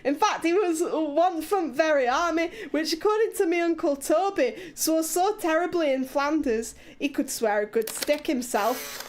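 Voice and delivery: mock Scottish accent breaking into giggles; laughing Scottish accent. Streamer giggling through the story in a mock Scottish accent. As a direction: keep the Scottish voice while laughing. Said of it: "Do you want me to do it in Leeds accent".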